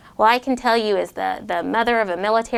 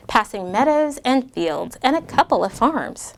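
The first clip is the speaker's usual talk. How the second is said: lightly voiced read-aloud to kids; a gentle rhyming storytime read; story narration. A narrator's reading. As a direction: read it like a picture book. Reads rhyming story to children.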